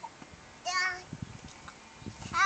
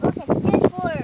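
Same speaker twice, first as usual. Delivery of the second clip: excited; 10 dB louder than usual. Real, not acted. Child finds a big worm.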